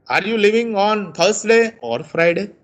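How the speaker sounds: Thursday rising, Friday falling; rise and fall. Shown as a demonstration. Teacher shows class the choice-question tune, rising then falling. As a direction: lift Thursday, drop on Friday. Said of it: "See, rise and fall".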